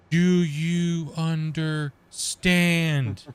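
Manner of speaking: slow, drawn-out talking down; mock slow condescending. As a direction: drag it out like to a fool. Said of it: "You gotta understand that".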